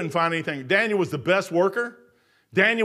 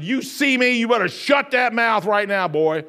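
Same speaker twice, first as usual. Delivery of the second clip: put-on stern warning to the boy; 3 semitones higher, 4 dB louder, slower than usual. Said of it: "And I said".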